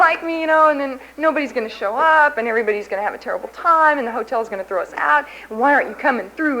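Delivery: half-acted angry pleading; retold screaming at God. Recalling yelling at God over the convention, mildly heated. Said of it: "And I'd start screaming".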